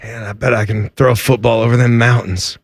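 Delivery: put-on rural Southern good old boy accent, boasting. Mocking the football-throwing boyfriend in a Southern good old boy accent. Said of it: "everybody's got this accent today".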